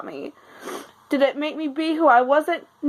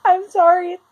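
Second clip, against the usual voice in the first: after crying; 4 semitones higher, 5 dB louder than usual. Real, not acted. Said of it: "I'm sorry I'm a mess".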